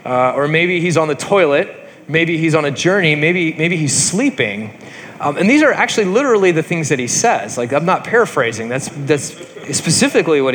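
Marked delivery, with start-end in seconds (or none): 0.0-4.8 making fun. Retold or imitated. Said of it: "Elijah starts making fun of them".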